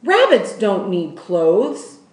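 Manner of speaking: loud, slow, scornful; shouting. Acted. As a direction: hammer each word down with contempt. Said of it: "shouted Lolly".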